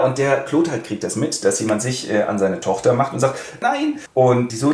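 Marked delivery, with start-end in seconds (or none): 3.6-4.0 outraged no. Acted. Father objects, daughter harassed.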